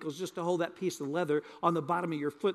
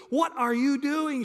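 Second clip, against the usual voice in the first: a slow, higher, puzzled "What are you doing?"; puzzled bride; 7 semitones higher, 3 dB louder, slower than usual. Retold or imitated. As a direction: ask it slowly, half awake and confused. She got close and said.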